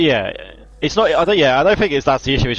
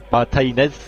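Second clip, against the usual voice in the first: Spanish accent; slower than usual. Shown as a demonstration. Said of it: "You put a little accent on it".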